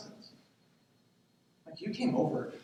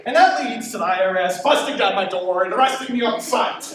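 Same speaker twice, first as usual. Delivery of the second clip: louder, laughing through the words; laughing while talking; 5 semitones higher, 9 dB louder than usual. Real, not acted. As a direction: laugh at your own silly fear. Laughing at own absurd fear.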